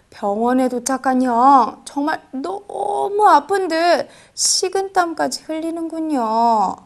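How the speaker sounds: usual speaking voice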